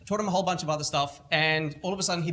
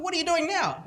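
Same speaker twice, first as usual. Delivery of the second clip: high, louder disbelieving question; astonished; 13 semitones higher, 5 dB louder than usual. Retold or imitated. Mentor asks the kid what's next, astonished.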